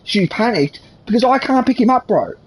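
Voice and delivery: sustained high-pitched angry ranting. Real, not acted. Man rants to interviewer about his back, high and angry. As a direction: vent it all, voice held up high.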